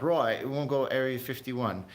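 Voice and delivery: a lightly done, bad British accent; half-hearted mock British accent, not pushed far. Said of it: "I'm gonna do a bad U K impression".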